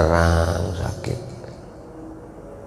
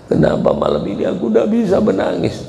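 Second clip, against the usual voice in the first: turning tearful; 13 semitones higher, faster than usual. Shown as a demonstration. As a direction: pitch climbing high into a mock cry. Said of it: "Tahu-tahu menangis". (pura-pura mulai menangis, suara meninggi)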